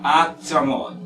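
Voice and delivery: actimol broken into separate, even syllables; slow breakdown of actimol. Shown as a demonstration. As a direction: sound out actimol piece by piece. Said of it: "por ejemplo".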